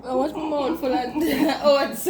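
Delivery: laughing through the words. Real, not acted. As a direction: giggle in the middle. Laughs mid line.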